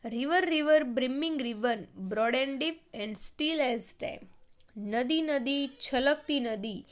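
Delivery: measured classroom poem reading; poem recitation. Acted. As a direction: lift the first words, then read slowly in phrases.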